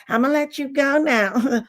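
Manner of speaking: drawn-out, slow "I'ma let you go now", sugary and fake; mock passive aggressive. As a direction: stretch it out like a fake polite exit. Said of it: "All of that".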